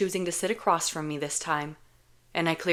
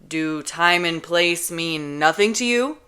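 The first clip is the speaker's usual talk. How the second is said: agitated; 4 dB louder, slower than usual. Acted. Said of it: "agitated hand".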